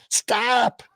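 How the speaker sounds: high-pitched startled cry, imitating a woman; mock yell. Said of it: "woman yells".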